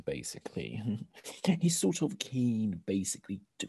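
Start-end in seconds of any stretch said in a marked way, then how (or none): 0.0-0.8 whispered aside. Real, not acted. Director's aside, unvoiced.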